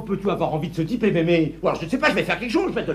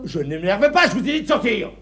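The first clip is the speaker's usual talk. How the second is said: agacement mal contenu; énervé. Acted. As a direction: nier sa colère tout en s'énervant. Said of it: "Mais ne t'énerve pas". (énervé, qui se contient mal)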